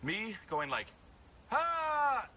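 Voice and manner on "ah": high, loud but held-in yell; contained scream; controlled demo scream. Shown as a demonstration. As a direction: yell while keeping control. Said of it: "It's controlling".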